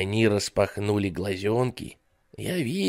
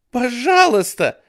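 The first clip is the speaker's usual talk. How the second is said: high, loud desperate cry; shrieking little girl; 9 dB louder than usual. Acted. Jennifer cries out to the babysitter, loud high shriek. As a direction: scream the plea like a terrified girl. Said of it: "вскричала Дженнифер".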